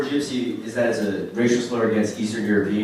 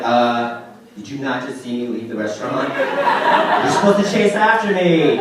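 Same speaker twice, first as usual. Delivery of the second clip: mock indignant, rising louder at the end; annoyed girlfriend; 3 semitones higher, 6 dB louder than usual. Woman returning to the restaurant, mildly indignant mock scolding. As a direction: scold him for not chasing. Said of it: "she's like".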